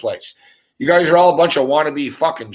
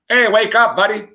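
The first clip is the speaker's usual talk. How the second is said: loud, high call of hey, wake up; calling out to wake someone; 6 semitones higher, 4 dB louder than usual. Pretend. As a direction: shout it down at a guy passed out on the sidewalk. Imagined waking a passed-out stranger.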